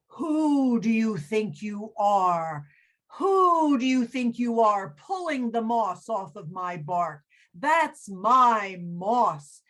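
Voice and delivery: indignant tree growling over its moss; angry tree. Acted. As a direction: scold him like an offended tree. Angry tree scolds the gladiator.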